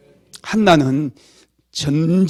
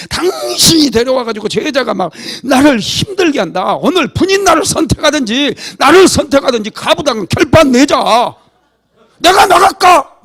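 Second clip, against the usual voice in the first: retold angry yelling; 7 semitones higher, 6 dB louder than usual. Wife screaming at husband about the rival wife, loud and high. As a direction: ham up a furious wife's ultimatum. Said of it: "막 이러면서 소리 빡빡 지르고".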